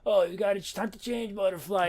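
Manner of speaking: softly mimicked delirious mumbling; loose, soft mock delirium; delirious rambling. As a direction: imitate someone rambling deliriously, half under the breath. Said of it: "like he was just delirious".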